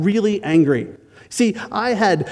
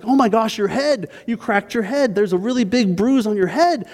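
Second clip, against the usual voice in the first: higher, lightly voiced fussing helpful neighbor; concerned neighbor; 5 semitones higher than usual. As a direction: play the kindly stranger all worked up for you. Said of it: "he's like".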